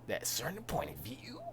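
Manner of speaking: quiet mock brattiness; whiny farm boy. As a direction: echo a whiny kid, rising at the end. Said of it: "whiny farm boy Luke".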